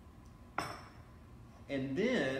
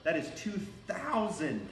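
voice cracking; 4 semitones higher than usual. Real, not acted. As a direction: voice cracks on the number. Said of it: "that did make my voice crack".

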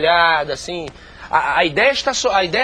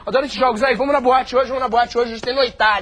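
put-on teenager slang; 4 semitones higher than usual. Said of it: "simular o processo de envelhecimento".

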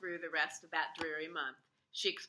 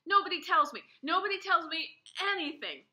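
higher, louder frustrated cry; shouting; 10 semitones higher, 6 dB louder than usual. A narrator's reading. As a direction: keep shouting, hurt. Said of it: "I shouted".

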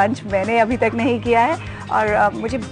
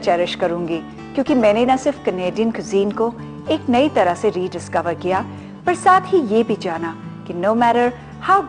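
measured, polished TV presenter narration; closing voice-over narration; much faster than usual. Real, not acted. Presenter closing a brunch episode for viewers, voice-over narration. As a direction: sum up the visit like a scripted voice-over.

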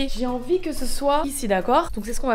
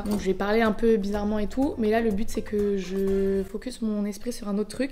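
hyperventilating; 4 semitones lower than usual. Real, not acted. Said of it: "désolée du coup si j'arrive pas à respirer".

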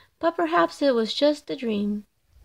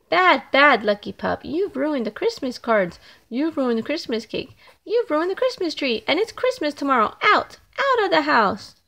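scolding family; 2 semitones higher than usual. Acted. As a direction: tell off a naughty puppy, then chase him out.

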